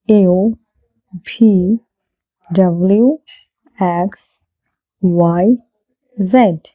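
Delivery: English alphabet from "এ" to "জেড", one careful letter at a time; correct pronunciation. Shown as a demonstration. Teacher reciting for learners to practise, correct pronunciation. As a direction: model each letter separately with long vowels and pauses. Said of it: "শুদ্ধ উচ্চারণ করব".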